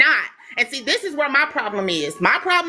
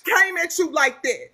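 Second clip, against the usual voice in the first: tearful, choked words pushed out; talking through real tears; crying while talking; 4 semitones higher than usual. Real, not acted. Hurt by the accusation, speaking to her critic through tears. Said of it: "I'm crying because I do".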